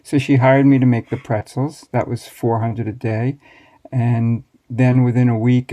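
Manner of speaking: ordinary talk, nothing marked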